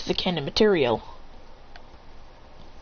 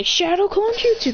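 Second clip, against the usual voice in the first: high, ringing battle cry; jutsu call; 11 semitones higher than usual. Acted. Both ninjas casting clones, high battle cry. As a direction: call out the technique.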